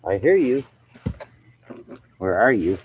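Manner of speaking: loud call into the dark. Real, not acted. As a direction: call out to an animal you can't see. Calling out to hidden raccoon.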